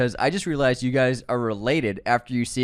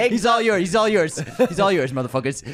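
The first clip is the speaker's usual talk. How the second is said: high loud mock yell fading down; mock shout; 6 semitones higher, 4 dB louder than usual. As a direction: yell it high, then let it drop. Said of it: "that's what he says".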